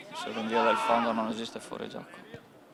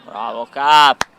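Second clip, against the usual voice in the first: cheer; 3 semitones higher, 14 dB louder, slower than usual. Real, not acted. Cheering a player.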